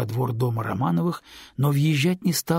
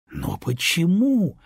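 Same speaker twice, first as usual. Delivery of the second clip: puzzled; 5 semitones higher, slower than usual. A narrator's reading. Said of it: "недоумевала она".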